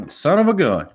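high, loud "son of a gun"; mock angry curse. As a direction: finish the curse with a mock burst. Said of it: "she's gonna be like".

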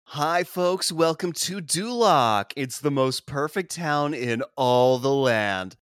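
drawn-out, hammed-up welcome spiel; Duloc town greeter. Greeter welcoming visitors to Duloc, showy announcer voice. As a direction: play a theme-park style greeter, slowly.

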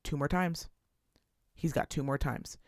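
low, quiet threatening mutter; low warning. Retold or imitated. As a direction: count down his patience under your breath. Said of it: "he'd go".

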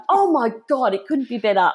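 delighted, starting high and settling; retold excitement. Recruit answers her upset mum, excited. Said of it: "I was so excited".

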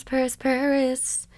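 dreamy whispered Paris. Real, not acted. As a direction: savor the name in a hush. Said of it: "whispered Paris after repeats".

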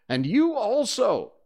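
high, loud dismissal; imperious command. Acted. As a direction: order them off like a captain. Peter orders the brothers dragged off.

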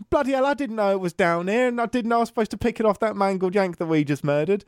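mock-gruff Northern English soldier swearing in surprise; Northern English accent. Retelling the actor's line in a Northern English accent. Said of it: "getting him to do the Northern accent".

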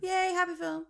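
bright mock cheer; excited cheer. Real, not acted. Cheering next film.

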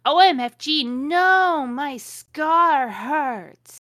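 high, loud wail, drawn out at the end; mock scream. A narrator's reading. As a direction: cry out in hammed-up agony. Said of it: "he started to scream".

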